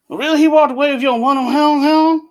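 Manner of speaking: hamming up a Cajun accent to mimic Seagal; Seagal's put-on Cajun accent. Seagal chatting with a Cajun fisherman, in a hammed-up Cajun accent. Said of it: "he'd start talking like that".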